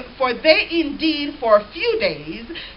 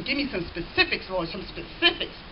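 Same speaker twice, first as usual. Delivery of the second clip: much softer, lower mock plea; mock pleading aside; 6 semitones lower, 11 dB quieter than usual. Preacher mocking a believer asking God for specifics, softly. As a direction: murmur it like a whiny request.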